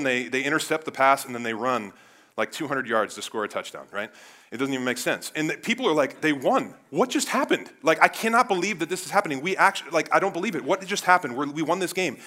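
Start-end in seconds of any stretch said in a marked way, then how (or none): 6.2-12.2 loud, high-pitched stunned fan; excited disbelief. Acted. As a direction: exclaim like a fan after a miracle win. Fans stunned by last-second miracle win.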